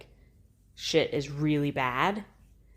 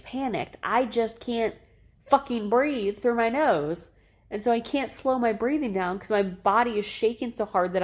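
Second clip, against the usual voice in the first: mad inner rant; 6 semitones higher than usual. Retold or imitated. Mother recalling her panic after birth, high furious rant. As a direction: vent furiously at your own shaking body. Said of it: "I was so mad in that moment".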